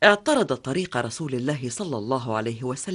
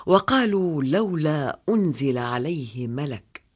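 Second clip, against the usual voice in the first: slow, measured recitation; Quran recitation. Acted. Narrator recites the revealed reply in slow recitation. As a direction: intone each phrase reverently.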